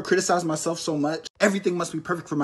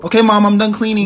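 put-on proud kid; 7 dB louder than usual. Kid announcing chores.

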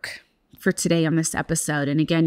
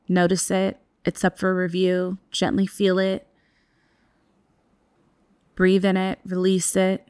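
guided meditation. Acted. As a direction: ease listeners into stillness. Leads a breathwork practice.

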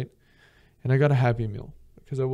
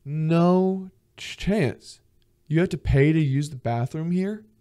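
high, louder mock disbelief; 5 semitones higher, 4 dB louder, slower than usual. Tourist told to pay for the toilet, in mock disbelief. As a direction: balk in outrage at paying. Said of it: "And you're like".

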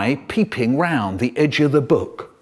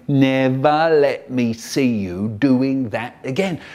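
imitating dad; 5 dB louder than usual. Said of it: "just like my dad".

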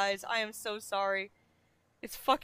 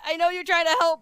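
louder, higher exasperation; loud exasperated complaint; 5 semitones higher, 7 dB louder, faster than usual. Real, not acted. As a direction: push back at chat. Ranting at chat.

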